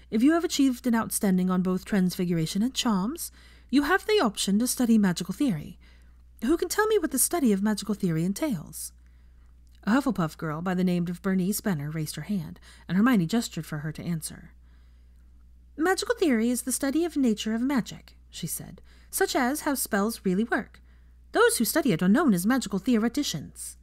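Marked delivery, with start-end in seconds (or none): 0.1-8.9 a touch higher, brisk classroom address; a professor ending her lesson, lightly voiced teacher. 15.8-18.2 a touch higher, keen answer; a schoolgirl answering in class, lightly voiced; eager student. 19.1-23.8 a touch higher, keen answer; a schoolgirl answering in class, lightly voiced; eager student.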